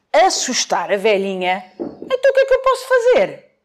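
wolf wailing in fright; scared wolf. Acted. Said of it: "Então o lobo assustado gritou".

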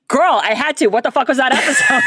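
high, laughing, excited greeting; excited friend. Retold or imitated. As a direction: gush at her like a friend. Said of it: "she was like".

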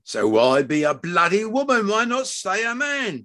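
rising, heated questioning; angry father, voice climbing high; exasperated plea. Acted. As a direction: demand to know why. Father arguing angrily.

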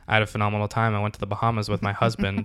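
imitated deadpan, soft and even; Captain Holt monotone. Deadpan captain answering colleagues about his weekend, monotone. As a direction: report a great holiday with no excitement. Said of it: "but it'll just be monotone".

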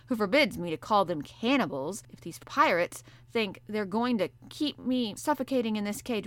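the caged harpooner grumbling to the professor; angry harpooner. Acted. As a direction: rant about the pirates, gathering heat. Ned Land voiced.

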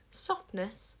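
rising, incredulous indignation; an offended monarch freezing the room, pitch climbing; icy outrage. A narrator's reading. Queen answering the Witchmeller's insult, icy outrage. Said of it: "in a voice that could have frozen".

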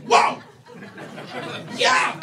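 loud, delighted whoa yeah; excited shout. Retold or imitated. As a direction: cheer at a match on the app. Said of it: "I'm like".

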